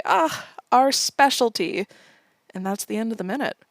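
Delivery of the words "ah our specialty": joyful shriek. Retold or imitated. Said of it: "Nation shrieks with joy".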